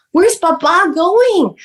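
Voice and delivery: put-on high, drawn-out childlike question; slow, acted-out alarm; alarmed child retold. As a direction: imitate a kid calling after a parent, slowly. Retells child asking where dad goes.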